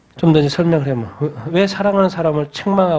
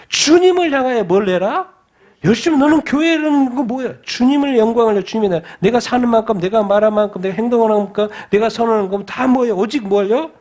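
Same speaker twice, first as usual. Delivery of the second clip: raised-pitch, driving exhortation; fervent preaching; 6 semitones higher than usual. Real, not acted. Preacher urging zeal toward the Lord alone, fervent exhortation. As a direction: pile up the phrases with urgency.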